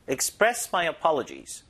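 slow, careful teacher model; slow model read. Shown as a demonstration. Teacher slowly models the phrase for students, careful pace. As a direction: spell it out slowly for the class. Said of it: "들어보세요".

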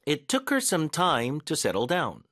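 slow, high beat on "took her", then "time"; stress drill. Shown as a demonstration. Teacher drilling the next sentence for learners, key words stressed. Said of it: "강세 넣는 연습해볼게요".

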